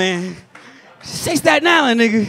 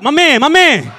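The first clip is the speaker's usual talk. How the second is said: laughing plea; 5 semitones higher, 6 dB louder than usual. Retold or imitated. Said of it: "It could be a shootout".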